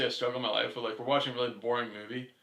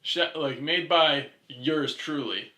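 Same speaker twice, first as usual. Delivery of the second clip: mock grand announcer; 4 dB louder, much slower than usual. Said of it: "you made the, like, arm motions".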